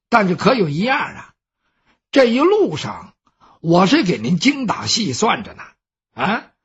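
lightly voiced servant, fussy and exasperated; a thrifty servant nagging his master; servant Baoxing. Servant Baoxing lectures his master about spending, lightly voiced exasperated.

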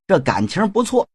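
sly villain getting pushy; pushy Shen Gongbao. Acted. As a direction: press him impatiently. Shen Gongbao presses, boasts.

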